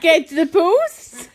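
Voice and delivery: slow, drawn-out fake French; attempted French accent. Taking a French accent challenge, slow attempted French accent. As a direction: stretch it out in bad French. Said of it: "With a French accent".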